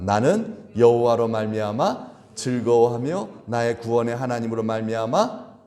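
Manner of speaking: slow recitation; scripture reading. Shown as a demonstration. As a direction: read it aloud with the congregation, slowly. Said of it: "시작".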